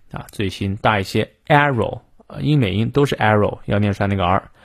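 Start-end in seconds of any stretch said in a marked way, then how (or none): none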